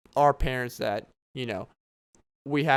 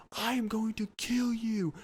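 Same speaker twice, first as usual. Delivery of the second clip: mock angry neighbor; 9 semitones higher, slower than usual. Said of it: "we hear".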